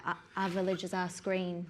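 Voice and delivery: northern English vowels, quiet and easy; northern English accent; north of England accent. Shown as a demonstration. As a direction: say it like a Yorkshire local. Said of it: "north of England would be like".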